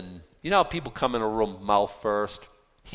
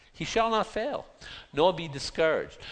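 pitched way up, ringing the promise out; the preacher lifts the promise high to the congregation, triumphant; 7 semitones higher than usual. Shown as a demonstration. Rereading the verse with triumph.

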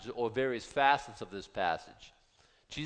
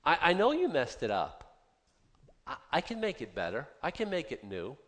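tender father God. Acted. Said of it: "He says".

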